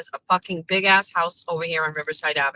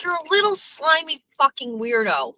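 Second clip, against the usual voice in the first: disgusted insult; 6 semitones higher than usual. Real, not acted. Ranting at politician.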